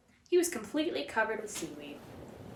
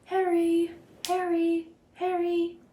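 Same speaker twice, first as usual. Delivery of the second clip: calling out; 8 semitones higher, 4 dB louder, slower than usual. A narrator's reading. Distant name calling.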